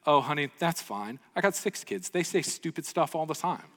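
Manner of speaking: southern drawl. Retold or imitated. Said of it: "in a southern drawl".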